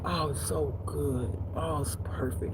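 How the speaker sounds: soft, slow, savoring murmur; hushed delight. Retold or imitated. A customer tasting his pho, soft and slow delight. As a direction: savor it quietly, drawn out. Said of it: "He was acting crazy".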